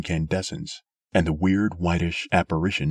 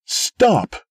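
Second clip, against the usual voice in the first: commanding shout; 7 dB louder than usual. A narrator's reading. Sim halting the mob.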